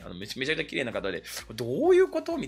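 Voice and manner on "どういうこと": baffled. Retold or imitated. Confused quote, pitched up.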